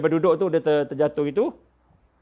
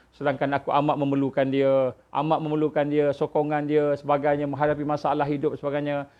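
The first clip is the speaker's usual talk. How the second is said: retold tearful wife. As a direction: lightly imitate a grieving wife. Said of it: "Dia pun menangis". (tiruan ringan ratapan isteri, nada mendatar)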